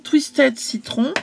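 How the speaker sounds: slow French-accented "Twisted Citron"; French-accented English. Real, not acted. Seller reading an ink colour to viewers, French-accented English. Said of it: "pardon pour mon anglais".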